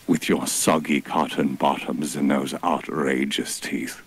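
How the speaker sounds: a hint of a grand divine rebuke; mock-solemn god scolding the beasts; heavenly voice. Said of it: "his heavenly voice".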